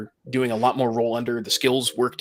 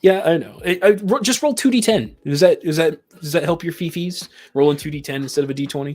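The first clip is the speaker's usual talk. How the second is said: higher, louder teasing voice; mocking tease; 5 semitones higher, 4 dB louder than usual. Real, not acted. Teasing his co-host about his fee-fees, mocking. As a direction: poke fun at him, sing-song.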